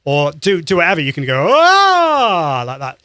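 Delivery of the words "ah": loud "Ah" sliding up high and back down; siren-like vocal warm-up slide; pitch glide. Shown as a demonstration. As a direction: sweep the voice from bottom to top and down. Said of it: "bottom and then go up to the top and then down".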